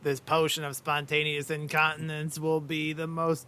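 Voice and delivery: lightly acted mad inventor, pitch climbing; rising mock-villain proclamation; potion maker's boast. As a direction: build steadily upward to a grand boast.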